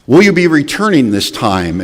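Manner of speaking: high, loud suspicious question; wary brother-in-law. Retold or imitated. Brother-in-law asking if the car comes back, sharp and high. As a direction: voice Larry doubting he'll get the car back. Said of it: "He said".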